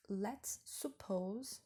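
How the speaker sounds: very slow, stretching lets; drawn out. Shown as a demonstration. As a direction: dwell on the key phrase. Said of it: "aqui já tá dando a chave".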